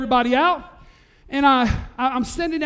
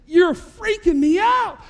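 higher, louder, slow and drawn out; slow amazed outcry; stunned shout; 9 semitones higher, 6 dB louder, slower than usual. Retold or imitated. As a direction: blurt it out in disbelief. Stunned reaction retold loud.

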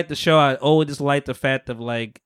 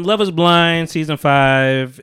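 slow, louder announcer read; show title announcement; 5 dB louder, slower than usual. Acted. Host reintroducing the show name, slow and loud. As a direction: announce the season like a promo.

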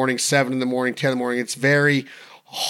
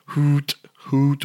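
hoot call. Shown as a demonstration. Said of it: "a lot of people say".

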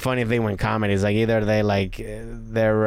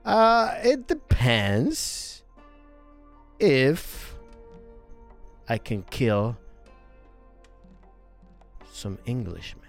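put-on Norwegian accent; much slower than usual. Newcomer setting his condition for joining, slow Norwegian accent. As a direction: spread it out with long pauses, Norwegian-accented. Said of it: "my Norwegian accent".

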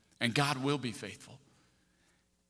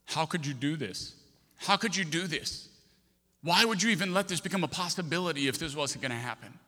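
retold cry to God, building louder and higher; 5 semitones higher, 5 dB louder than usual. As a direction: plead with rising force, near shouting at the peak. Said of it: "I just scream at God".

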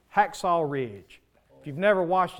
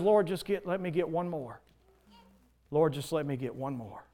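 quiet prayer; 4 dB quieter than usual. Acted. Soldier's exhausted prayer voiced.

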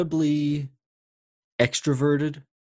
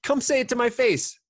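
imitating his own inner snap-back, pitch spiking high on the curses; half-playful defiance, daring them to say it to his face; hammed-up inner tough guy talking back; mock defiant retort; 11 semitones higher than usual. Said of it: "my voice is like".

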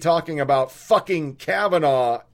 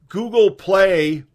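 throat irritated; 4 semitones higher, 6 dB louder than usual. Real, not acted. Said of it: "I just swallowed a bug".

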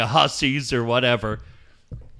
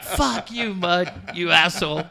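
mock angry; 3 semitones higher than usual. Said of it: "you were almost like".

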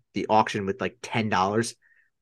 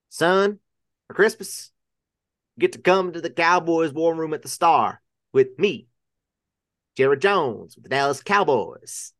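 Jerry Jones; 3 semitones higher than usual. Acted. Football owner inviting his grandkids to the war room, impersonated accent. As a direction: impersonate a proud football boss addressing family. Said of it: "It's a very convincing accent".

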